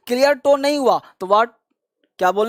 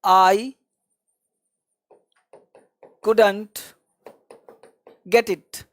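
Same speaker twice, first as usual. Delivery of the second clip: slow drill line; much slower than usual. Shown as a demonstration. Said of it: "या बोल सकते हो आप".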